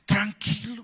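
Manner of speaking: drawn-out, soothing "there, there" delivery; reassuring pastor. Retold or imitated. Pastor to a weeping young man, reassuring. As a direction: imitate a pastor calming someone down. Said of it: "el hermano Oscar me decía".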